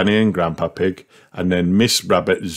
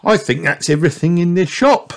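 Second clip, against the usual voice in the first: much higher lady rabbit voice; Miss Rabbit voice; 11 semitones higher, faster than usual. Acted. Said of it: "said Miss Rabbit".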